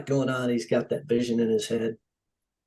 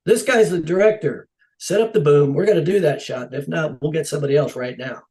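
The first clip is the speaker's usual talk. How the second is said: firm retold orders, starting louder; setting them straight; 3 semitones higher, 4 dB louder than usual. Defending the director to the crew, firm. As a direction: lay down the law, retold. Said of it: "set everybody straight right there".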